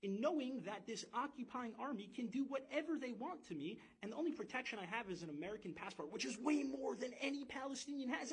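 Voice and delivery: retold alarm that escalates as it goes; terrified. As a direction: relive the fear, building to a high, urgent pitch. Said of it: "and I was still terrified".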